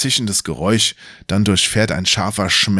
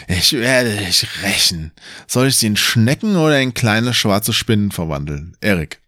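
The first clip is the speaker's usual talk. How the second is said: lightly voiced mocking wizard. Wizard Kallmann speaks.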